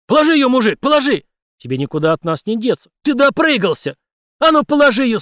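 high, loud barrage of commands; shouting orders. A narrator's reading. Cops screaming at the suspect to let her go. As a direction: keep yelling, building in urgency.

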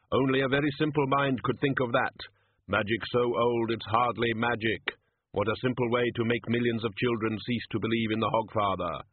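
a hint of solemn Death explaining. Death explains the plot to Susan, grave and solemn.

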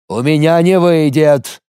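high, drawn-out cry of protest. A narrator's reading. Warrior finally cracks under the silence, crying out. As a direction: cry it out slowly on a high pitch. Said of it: "наконец крикнул он".

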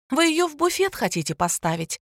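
high-pitched exasperation, no real volume; mild yell. A narrator's reading. Exasperated pharmacist to a fussy customer, mildly yelling. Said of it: "заорала провизор".

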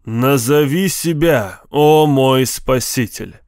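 slow good-natured genie growl; friendly monster voice. Acted. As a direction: growl it kindly, like a grateful giant. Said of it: "Он добродушно прорычал". (добродушное рычание джинна)

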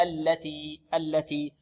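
slow "التي" without overdoing the l; single clean lam. Shown as a demonstration. Teacher modelling the word, slow careful "التي". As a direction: recite "التي" slowly, lam not over-tightened. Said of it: "ولا تشدد اللام ولا تفتح".

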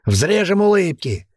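slow, gloating, a touch of laughter; cruel chortle. A narrator's reading. Warrior gloating over a prisoner, slow chortle. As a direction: savour the threat with a chuckle. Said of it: "хохотнул один из горбоносых".

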